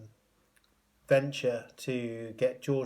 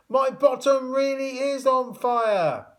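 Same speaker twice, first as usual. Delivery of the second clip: high, loud, slow panicked wail; 12 semitones higher, 6 dB louder, slower than usual. A narrator's reading. Tom howling to everyone below in panic. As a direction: cry it out, desperate. Tom's pyjamas smoking.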